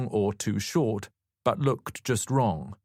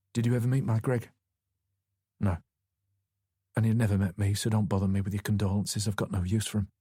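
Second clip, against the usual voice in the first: weary Yorkshire widow, unenthusiastic; flat, grudging Yorkshire voice; Yorkshire accent; faster than usual. A narrator's reading. Grieving widow offering tea, in a Yorkshire accent. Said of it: "She had a solid Yorkshire accent".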